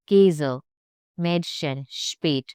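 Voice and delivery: KÄSE, MÄDCHEN, SPÄT with an E vowel; umlaut as E. Shown as a demonstration. Teacher giving umlaut examples, E sound. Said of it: "Think short E, not A".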